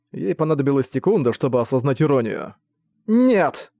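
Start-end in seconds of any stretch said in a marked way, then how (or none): 3.1-3.7 high, loud cry of no; sharp refusal. Acted. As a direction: shut it down hard. Battery refuses the name. (резкий, громкий выкрик)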